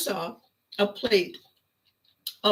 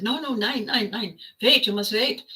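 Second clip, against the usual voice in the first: mock German doctor accent, raised pitch; hammed-up German accent, higher voice; 4 semitones higher than usual. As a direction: imitate the German doctor urgently stopping her. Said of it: "in that accent that he had".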